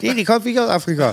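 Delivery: amused retold protest. Repeats friend's protest amid own laughter.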